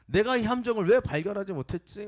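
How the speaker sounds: acted outrage at the hidden trap; angry shout. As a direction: shout in fury at whoever dug the pit. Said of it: "막 소리치는 거예요".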